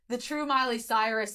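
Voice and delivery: raspy, smoked-out voice; hoarse voice. Real, not acted. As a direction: talk through a shot, raspy throat. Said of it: "like, hoarse voice".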